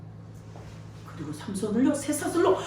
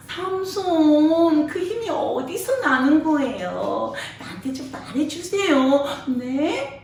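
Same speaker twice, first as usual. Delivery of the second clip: a light, pleading wheedle, drawn out slowly; coaxing wife; 2 semitones higher, 4 dB quieter, slower than usual. Acted. Delilah begs Samson for his secret, softly wheedling. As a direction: coax it sweetly like Delilah begging. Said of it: "애교를 부렸을 거예요".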